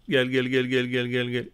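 soft, low luring gel gel gel; coaxing hush. Real, not acted. Gamer quietly luring an enemy player closer, hushed. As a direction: coax the enemy closer under your breath.

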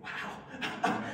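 whispered soft wow; quiet reverent wow before God; reverential wow. Real, not acted. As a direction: let the wow fall to a hush. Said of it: "it becomes more reverential".

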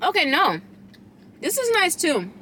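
talking while chewing; chewing food. Real, not acted. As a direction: mouth partly full. Seen 2: Holds bitten burrito; lips pursed, chewing motion while speaking.

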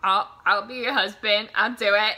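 loud, eager offer; acted-out impulsive proposal, belted out; smitten volunteering. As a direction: jump in loudly, mock lovestruck. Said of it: "smitten with her".

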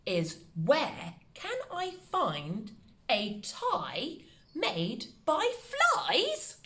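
slow, rising on flies; drawn-out tricky question; slow dictation. Shown as a demonstration. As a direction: build up to a high flies. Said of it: "the tricky one".

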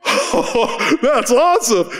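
loud, high burst of excitement; excited. Retold or imitated. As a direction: get swept up in his joy. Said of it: "I'm starting to get excited".

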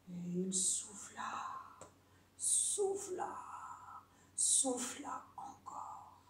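slow whispered narration; hushed, drawn-out huffing; breathy blowing. A narrator's reading. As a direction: blow the words out on air.

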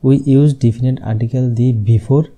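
slow, word-by-word rule reading; slow dictation. Shown as a demonstration. Teacher dictating the silent H rule slowly. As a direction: dictate it so students can write. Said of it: "আর definite article হচ্ছে দি।".

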